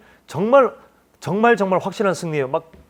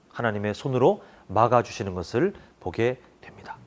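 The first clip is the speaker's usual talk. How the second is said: hushed, breathy whisper of awe; 7 semitones lower, 7 dB quieter than usual. Real, not acted. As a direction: drop to a whisper for the climax. Sermon climax falls hushed. (경외감 속에 속삭이듯)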